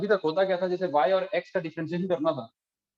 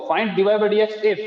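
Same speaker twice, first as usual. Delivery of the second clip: slow, loud dictation, pitched slightly up; dictating; 3 semitones higher, 6 dB louder than usual. Real, not acted. Teacher dictating a question to the class, slow dictation. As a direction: call it out slowly for note-takers.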